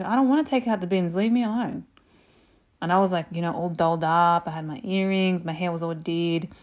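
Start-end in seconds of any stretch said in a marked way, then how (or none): 0.0-1.8 higher, quick whine; imitated teenage backtalk; bratty teen protest. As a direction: brush mum off like a sulky teenager.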